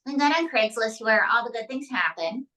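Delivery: ordinary talk, nothing marked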